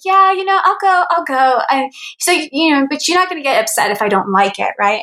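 mock a doubtful buddy agreeing; reluctant friend. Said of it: "he was like".

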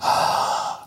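a short put-upon sigh; begrudging sigh. Retold or imitated. Seatmate grudgingly making room, a put-upon sigh. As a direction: exhale like you're annoyed to move. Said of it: "begrudgingly moved her legs and went".

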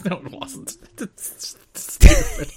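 very high, slow squeaky complaint. Real, not acted. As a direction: squeak it out through laughter. Mock squeal after laughing.

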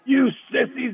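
high-pitched mock coach tirade; retold yelling. Coach going ballistic on his defense, high mock yelling. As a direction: imitate a coach screaming at his players, pitch way up. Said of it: "he's yelling and screaming at him".

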